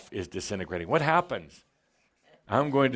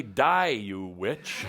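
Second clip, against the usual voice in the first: mock defiance; much slower than usual. Shown as a demonstration. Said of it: "You take a deep breath and say".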